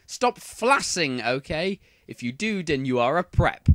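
put-on defensive, huffy teen writer ranting at readers; mock-indignant author's note; whiny teen author. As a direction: snap back at the critics like a touchy fanfic author.

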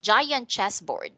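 slow, careful model of Giant chessboard; teacher modelling Giant chessboard slowly for repetition; model phrase. Shown as a demonstration. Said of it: "Can you say it?".

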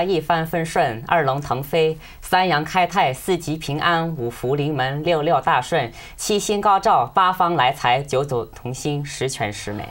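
loud, rhythmic New Year blessings; festive greeting recital. Real, not acted. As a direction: rattle off the blessings with gusto.

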